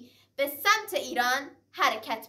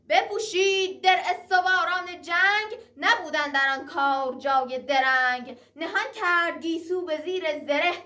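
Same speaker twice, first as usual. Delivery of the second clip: raised rhythmic verse chant; epic teahouse storyteller; 2 semitones higher than usual. Acted. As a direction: declaim it like a Persian naqqal. Shahnameh verse recited between prose. (نقالی حماسی با آهنگ شعر)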